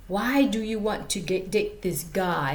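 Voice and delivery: lightly put-on African accent; a hint of a homemade African accent. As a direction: imitate an African study buddy, amateurishly. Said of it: "this is my African dude voice".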